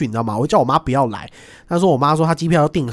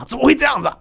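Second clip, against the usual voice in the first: mock dismay; 11 semitones higher, faster than usual. Officials shocked, quoted.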